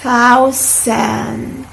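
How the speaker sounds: thousand with a soft TH, tongue between teeth; soft th demo. Shown as a demonstration. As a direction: model "thousand" slowly with soft th. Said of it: "repeat, please".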